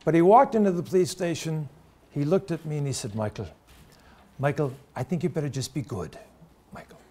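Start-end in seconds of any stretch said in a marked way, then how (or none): 3.2-7.0 put-on subdued Irish-accented father. Father collecting his son from the police station, subdued Irish accent. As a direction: softly admonish him like an Irish dad. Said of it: "in his Irish accent".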